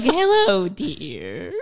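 a breathy come-hither hello; flirty lady voice. Retold or imitated. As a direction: purr it like a flirt. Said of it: "Babette's like".

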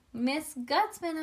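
high, drawn-out happy call; excited shout. A narrator's reading. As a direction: cry the name out high and slow, not full volume. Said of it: "I shouted".

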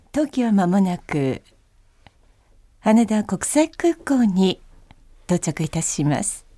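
slow, measured in-flight announcement; airplane announcement. Shown as a demonstration. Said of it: "飛行機アナウンス風で。".

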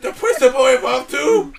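lightly put-on Asian accent dad; Chinese restaurant accent. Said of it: "you sound just like the people".

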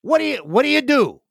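high, loud mock-puzzled voice; clueless dinner buddy. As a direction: play the guy who forgot everything. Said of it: "they're like".

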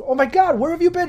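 high, loud astonished cry; shocked brother. Acted. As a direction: blurt it out in disbelief. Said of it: "And he looks".

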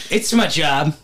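lightly voiced Tennessee kid; little Tennessee boy. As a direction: imitate a small boy's Tennessee twang. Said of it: "he sounds like a little Tennessee boy".

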